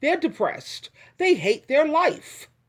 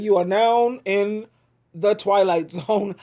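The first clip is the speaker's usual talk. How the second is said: slow, lower spooky announcer intro; 4 semitones lower, slower than usual. Shown as a demonstration. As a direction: intone it like a TV narrator. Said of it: "I can't do it".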